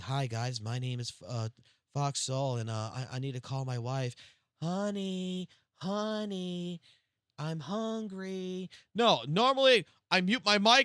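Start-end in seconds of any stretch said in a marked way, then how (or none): 0.0-8.7 put-on soft polite indoor voice, drawn-out "honey". Speaker admits his group rarely talks softly, then shows it in a mock indoor voice. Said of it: "We don't fucking have an indoor voice most of the time like this".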